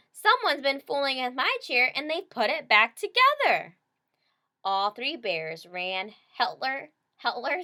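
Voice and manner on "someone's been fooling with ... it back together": high, loud tantrum cub voice; baby bear upset about his chair; stomping baby bear. A narrator's reading. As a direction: whine it while stomping in a tantrum. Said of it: "stomping up and down".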